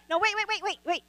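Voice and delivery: high, hurried no-wait-wait; excited stop. Real, not acted. Pastor halting volunteers mid-demo with a high excited stop. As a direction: stop them quick, pitch jumping up.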